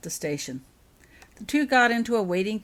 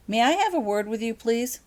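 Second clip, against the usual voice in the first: raised, higher request; calling over; 6 semitones higher, 5 dB louder than usual. Acted. Laurel asks Harry for a word from the steps, raised polite call. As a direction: summon him politely but firmly.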